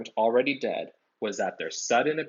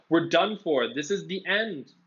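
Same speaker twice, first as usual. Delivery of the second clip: moaning; 7 semitones higher than usual. A narrator's reading. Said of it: "Ron moaned".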